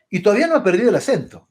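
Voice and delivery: fast mock reproach about the accent; like a scolding. Stranger scolding an immigrant for keeping his accent, mock reproach. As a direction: imitate a light scolding, quickly. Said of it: "casi como un regaño".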